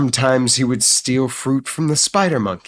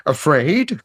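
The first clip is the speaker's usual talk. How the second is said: higher, incredulous parrot cluck; 5 semitones higher, 3 dB louder than usual. A narrator's reading. Parrot answering the timid night creatures, clucking. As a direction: cluck the question like a bird. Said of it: "clucked Papagayo".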